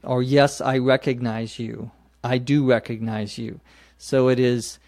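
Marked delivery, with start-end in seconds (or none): 0.2-3.6 Yes, I recognize you, then I do recognize you with do stressed; emphatic do. Shown as a demonstration. Teacher modelling emphasis for the listener. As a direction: land hard on do. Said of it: "when we want to make that sort of emphasis".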